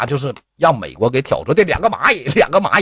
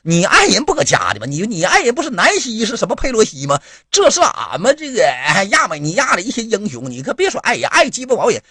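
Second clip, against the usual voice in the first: mock Armenian official scolding; 8 semitones higher than usual. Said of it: "当时亚美尼亚亚长说".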